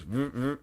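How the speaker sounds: short vibrating buzz noises; two quick mouth-made vibrations; phone buzz imitation. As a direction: imitate a text message buzz. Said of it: "your phone just goes".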